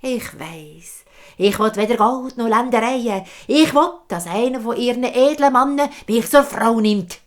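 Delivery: put-on high, loud old crone voice; hag's demand. Hag demanding a noble husband, high and loud. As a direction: croak out the price, rising. Hag names her price.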